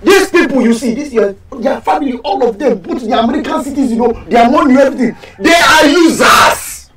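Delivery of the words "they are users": slow, emphatic shouted accusation; bitter accusation. Acted. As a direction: hammer each word out in anger. Accusing his ex's family.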